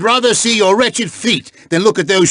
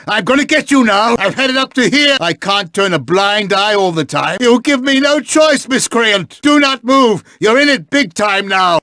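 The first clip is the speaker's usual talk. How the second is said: higher-pitched, exasperated scolding; stern threat; 4 semitones higher than usual. Acted. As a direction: scold like your patience has run out. Threatens a misbehaving student.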